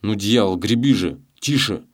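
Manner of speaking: menacing hissed orders; a thief threatening a scared rower; hissing threats. A narrator's reading. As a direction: lean in and threaten him through the teeth. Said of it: "шипел Челкаш".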